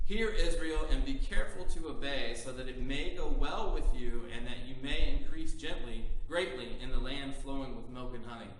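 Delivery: loud, ringing proclamation; proclaiming. Acted. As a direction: call it out to Israel. Proclaiming Hear Israel.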